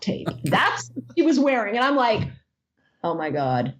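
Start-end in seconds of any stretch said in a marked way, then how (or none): 3.0-3.7 appalled deadpan. Retold or imitated. Deadpan reaction to naked fan.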